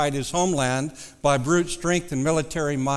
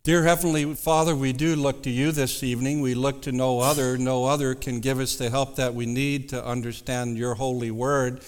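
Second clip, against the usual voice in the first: hushed and reverent; 3 semitones lower than usual. Acted. Leads prayer.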